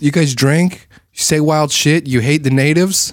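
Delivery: Australian bogan. Acted. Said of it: "if Bogans go to the South, they're like".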